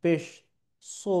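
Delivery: very slow, loud spelling-out with সদ held for seconds; slow Qaida-style letter drill; long drawn-out recitation. Shown as a demonstration. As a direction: stretch সদ on a steady held note. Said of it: "তিন আলিফ টেনে টেনে আমাদেরকে পড়তে হবে".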